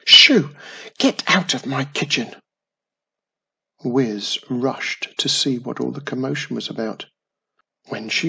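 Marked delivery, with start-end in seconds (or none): 0.0-2.4 loud sharp "Shoo!" then scolding; shooing shout. A narrator's reading. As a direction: chase the pixies out loudly. Mum chasing pixies away.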